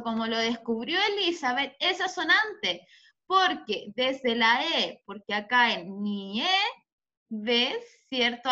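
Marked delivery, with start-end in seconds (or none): 6.0-7.8 "ni E, ves" broken up, drawn out on E; stressed syllable shown. Shown as a demonstration. Teacher showing the tonic syllable, "ni E, ves" split with E held. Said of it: "Aquí tengo mi sílaba tónica".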